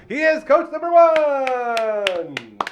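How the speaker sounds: slow, stretched hype introduction; announcer hype. Acted. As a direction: boom it out like a ring announcer. Announcing guest title.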